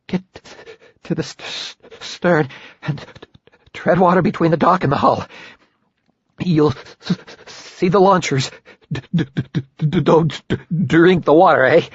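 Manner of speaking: stuttering through chattering teeth. Acted. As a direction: teeth chattering with cold, high. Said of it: "spoke through chattering teeth".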